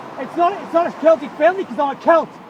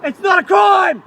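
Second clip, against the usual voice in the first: real shout; 3 semitones higher, slower than usual. Real, not acted. Shouting back at officer.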